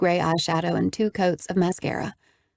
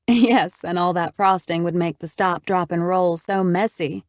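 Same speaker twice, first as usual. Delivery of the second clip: laughing. Acted. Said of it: "I laughed".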